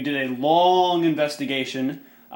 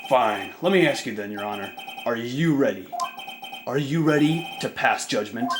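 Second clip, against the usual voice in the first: cool challenging prosecutor. Acted. Prosecutor challenges the judge, cool measured voice. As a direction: turn the question back, cool and measured.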